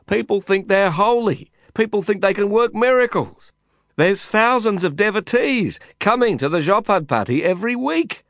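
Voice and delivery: high, loud urgent pleading shout; shouting hoarse. A narrator's reading. Lin argues with Kasim above the clamour, shouting. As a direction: yell to be heard over the din. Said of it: "I was shouting myself hoarse".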